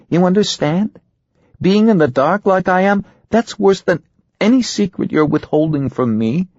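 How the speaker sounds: high-pitched, anxious wife; scared, pleading wife. A narrator's reading. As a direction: plead with the husband as his frightened wife, voice climbing high. Narrator plays scared, pleading wife.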